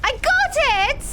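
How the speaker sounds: high, loud shout of victory; real triumphant cheer. Real, not acted. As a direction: yell it out like you finally won. Finally beats the level.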